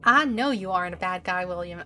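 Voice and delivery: lightly Southern, coaxing officer; Southern accent. Acted. Officer appealing to William, light Southern accent. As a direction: coax with a hint of Southern twang. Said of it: "is totally gonna have a Southern accent".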